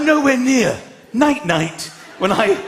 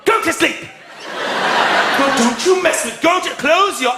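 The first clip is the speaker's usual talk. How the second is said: mock scolding; 6 semitones higher than usual. Dad scolding kids at bedtime.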